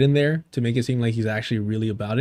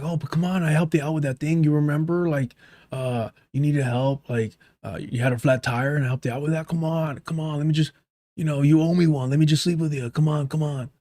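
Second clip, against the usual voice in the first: lightly voiced pushy creep, softer; imitated creep; 4 dB quieter than usual. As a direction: wheedle quietly, mocking a creep. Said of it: "that type of fucking creep energy".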